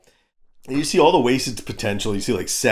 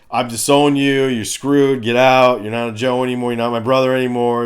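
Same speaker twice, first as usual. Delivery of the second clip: stern disowning; 4 dB louder than usual. Retold or imitated. Duke disowning Falcon, acted out.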